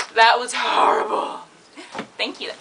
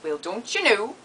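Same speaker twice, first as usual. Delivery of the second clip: put-on Canadian lilt; Canadian accent. Shown as a demonstration. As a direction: say it like a stereotypical Canadian. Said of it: "how to say in Canadian".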